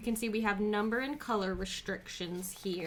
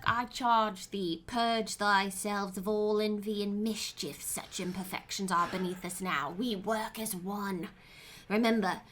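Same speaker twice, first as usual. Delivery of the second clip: Antonio Banderas. Retold or imitated. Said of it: "That's from Antonio Banderas. That's how he sounds".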